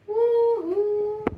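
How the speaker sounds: a high, loud whoop; joyful cheer. Acted. Child cheering as the gingerbread family escapes. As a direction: cheer it out with delight. Chain rolls to safety.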